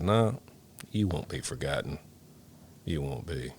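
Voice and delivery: tender vow. Retold or imitated. Retiring firefighter promising the memorial board, tender and soft. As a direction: speak gently to the fallen.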